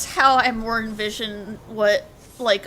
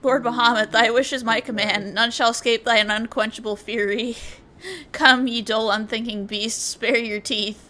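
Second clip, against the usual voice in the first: grand, archaic cutscene voice; dramatic dialogue reading. Acted. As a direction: read it like a solemn epic narrator. Reads game dialogue aloud.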